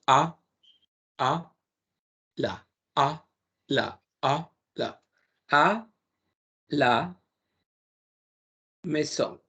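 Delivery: "a, la" with a deep open throat; low grave A. Shown as a demonstration. Teacher shows the French low A to Spanish speakers. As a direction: pull air in and drop the "a" low. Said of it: "Se hace una A grave".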